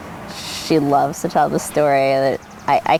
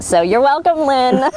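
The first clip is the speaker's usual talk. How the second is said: teasing aside; 10 semitones higher, 3 dB louder than usual. Real, not acted.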